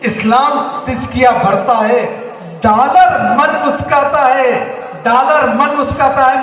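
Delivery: emphatic declaimed Hindi verse; poem recitation. Acted. Reciting Partition verses to the audience, emphatic recitation. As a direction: declaim it, stretching the weighty phrases. Resumes verse after asking for attention.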